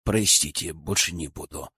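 low, subdued apology; sincere apology. A narrator's reading. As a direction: drop the pitch and apologise sincerely, softening at the end. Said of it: "искренне извинился Максим".

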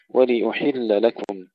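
ولأحل with a full i on L then u on hamza; clear vowels. Shown as a demonstration. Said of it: "تحقيق كسر اللام ثم ضم الهمزة". (تحقيق الحركات)

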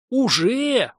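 sharp, high surprised gasp. Acted. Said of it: "удивлённо ахнул техножрец".

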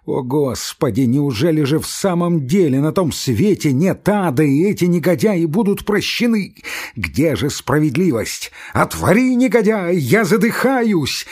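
a hint of a hoarse, desperate prisoner; hoarse shout. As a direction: shout till the voice cracks. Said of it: "крикнул он сиплым голосом".

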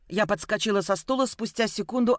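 usual speaking voice

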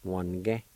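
One-ge with the middle vowel dropped; showing learners the variant One-ge; silent I variant. Shown as a demonstration. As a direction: say One-ge clipped to two syllables. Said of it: "it'll sound like this".

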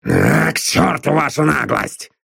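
slow grumbling curse; grumbled. A narrator's reading. Drummond grumbles at Constance's cheek, slowly. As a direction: grumble it under your breath. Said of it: "пробурчал он".

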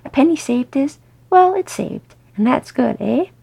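lively, blithe chatter, rising in places. Acted. Owen proudly chatting about his glass-blower apprentice, blithely. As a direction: carry on breezily, oblivious. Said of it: "Owen carried on blithely".

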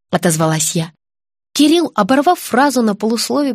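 ordinary delivery, nothing marked

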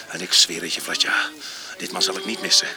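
fierce vow. Retold or imitated. Man quoting his own revenge vow, loud and fierce. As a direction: spit out the oath of revenge.

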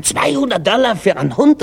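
high, outraged disbelief; incredulous. Acted. Shopper hears the shepherd dog's price, incredulous. Customer shocked at higher price.

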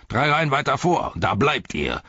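high bark dropping to firm command; forceful slave-driver direction; bellowed order. A narrator's reading. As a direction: order them up the line. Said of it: "brüllte der Sklaventreiber".

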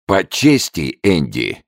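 ordinary delivery, nothing marked

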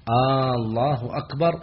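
"آه الله أكبر" with a long aah and a rise on "أكبر", like a question; questioning aah before Allah. Shown as a demonstration. Teacher showing the call turned into a question, rising. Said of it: "لأنه استفهام".

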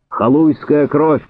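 high, drawn-out furious cry; angry shout. A narrator's reading. Cossack cursing the man holding his arm, shouting. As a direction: fling the insult out high and slow. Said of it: "крикнул Афонька".

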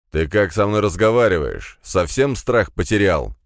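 loud, menacing rebuke; feigned fury. Acted. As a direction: play at being enraged. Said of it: "Сделал вид, что рассвирепел я".

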